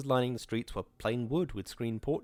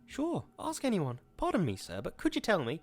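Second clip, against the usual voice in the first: near to breaking; 7 semitones higher than usual. Acted. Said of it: "voice was gay and near to breaking".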